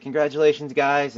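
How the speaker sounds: leaning out a car window, a teammate's wife calls congratulations to the couple, excited shout. Retold or imitated. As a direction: call it out high and bright, congratulating.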